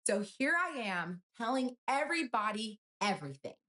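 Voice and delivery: sarcastic high-pitched read of the ex's text; mocking read of his text. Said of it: "this is my favorite text in the entire thread".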